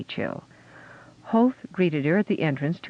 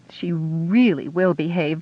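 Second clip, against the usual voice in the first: whispered aside; 2 semitones higher, 4 dB louder than usual. Acted. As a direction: whisper it apologetically. Apologetic aside to Marita.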